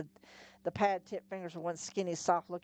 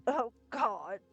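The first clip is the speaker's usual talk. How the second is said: moaning; 5 semitones higher than usual. Acted. Susan sick on the ground.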